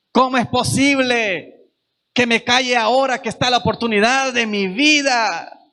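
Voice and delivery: hint of a desperate beggar, building; voicing Bartimeo. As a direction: preach as the blind man who won't stop asking. Preacher speaks as blind Bartimeo.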